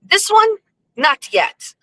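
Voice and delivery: imitating Blackie. Friend explains first wife is gone, imitated high. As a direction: do his voice, jumping high then dropping. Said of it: "He goes".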